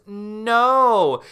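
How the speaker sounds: loud high cry; Tamara shouting no; defiant shout. Acted. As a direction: refuse with all your strength. Tamara resisting the witch.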